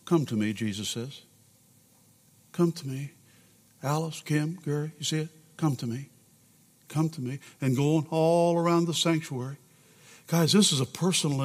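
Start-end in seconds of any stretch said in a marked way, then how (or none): 0.0-7.4 hushed plea. Acted. Quiet plea around the sanctuary.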